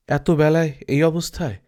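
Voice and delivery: voiceless whisper of puzzled doubt; a hushed, puzzled whisper to himself; whispered aside. Acted. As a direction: whisper it as a private wondering. Apu's puzzled inner thought.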